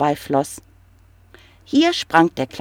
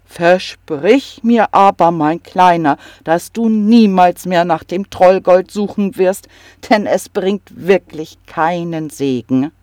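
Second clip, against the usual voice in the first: grandfather; 3 dB louder than usual. Acted. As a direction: gently make him promise. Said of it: "meinte der Großvater".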